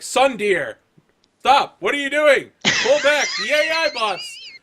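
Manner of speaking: high, loud panicked yelling; cheesy TV co-pilot shrieking a warning; frantic shout. Acted. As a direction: scream at her to pull back. TV partner yells warning at pilot.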